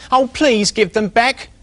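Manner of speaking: high, slow begging little pig; little pig begging the squirrel, slow and high; pleading. Acted. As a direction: beg slowly and sadly. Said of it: "squealed the little pig".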